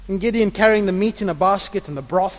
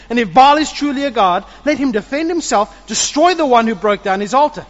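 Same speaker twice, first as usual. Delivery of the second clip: father shouting back at the mob; shouting Joash; 7 semitones higher, 8 dB louder than usual. Acted. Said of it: "Joash shouted to the mob".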